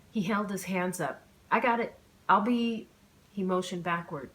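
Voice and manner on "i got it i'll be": flustered. A narrator's reading. Startled after nearly falling.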